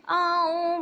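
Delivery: short mock yelp of a hurt dog; imitated dog yelp. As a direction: copy the little dog's cry of pain. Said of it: "बोल के चिल्लाती है ना". (कुत्ते की नकली चीख़)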